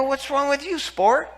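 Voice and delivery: amused, joking needle at a proud man; laughing tease. Retold or imitated. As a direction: tease him through a laugh. Teasing a limping man.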